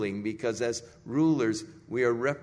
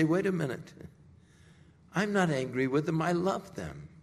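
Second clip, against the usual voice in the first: higher and louder, building indignation; exasperated outcry; 9 semitones higher, 4 dB louder than usual. Acted. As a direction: insist you're not angry, rising to a peak. God exasperated with his representatives.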